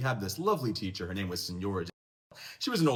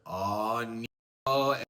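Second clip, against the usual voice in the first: mock Latino accent for the teacher, slowly drawn out; slow, sing-song scolding in a Latino accent; 3 dB louder, slower than usual. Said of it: "like, a Latino accent there".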